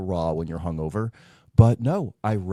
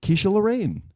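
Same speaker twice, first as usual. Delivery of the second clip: high-pitched, lightly hammed-up drag name; drag queen name announcement; 11 semitones higher than usual. Host reveals drag name, lightly voiced drag queen. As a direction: introduce yourself as a drag queen.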